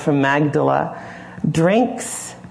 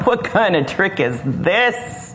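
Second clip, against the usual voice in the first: laughing disbelief. Acted. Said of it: "Nathanael starts to laugh".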